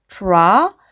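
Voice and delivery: 트라 as English 'truh' with curled R; sounding out blend. Shown as a demonstration. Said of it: "그대로 발음돼서 여기까지". (트라를 혀 굴려 이어 읽기)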